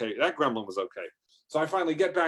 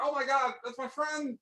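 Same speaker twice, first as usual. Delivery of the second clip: squeaky high-pitched wail of dismay; 13 semitones higher, 5 dB quieter than usual. Retold or imitated. Trucker mourning the bird he kicked, high squeak. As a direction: shriek it way up high like a crushed kid.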